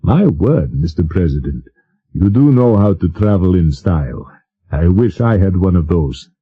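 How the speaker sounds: put-on lightly clipped Oxford English accent; a hint of an Oxford-educated prince. Prince admiring the coach, in a light Oxford accent. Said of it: "in his clipped Oxford accent".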